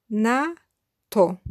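ordinary talk

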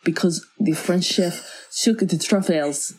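lightly put-on, badly faked French accent; a half-hearted French accent for the sous chef. Retelling the sous chef's excuse in a faked French accent. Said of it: "that's not a French accent".

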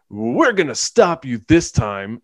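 slow, like reading words off a page; bad actor reciting dialogue; mock stilted acting. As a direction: parody a wooden line reading. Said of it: "Everyone talks like they're reading words off a page".

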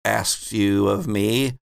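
slow, solemn prophetic chant; rhyming oracle. Acted. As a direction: intone the prophecy like a seer. Prophet rhymes again.

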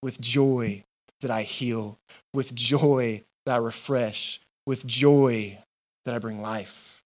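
slow, low, tender promise; joyful assurance. Acted. Jesus telling the crowd he saves with joy, tender. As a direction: linger on joy, gently. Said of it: "Jesus is standing up and saying".

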